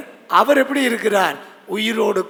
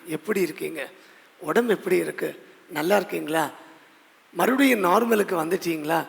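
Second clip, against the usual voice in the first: caring soft inquiry; 3 semitones lower, 5 dB quieter than usual. Retold or imitated. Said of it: "நம்மை அக்கறையோடு என்ன செய்றாங்க".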